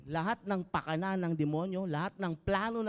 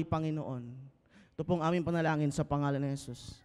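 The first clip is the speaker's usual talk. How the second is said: prayer. Acted. Pastor leads a Tagalog prayer.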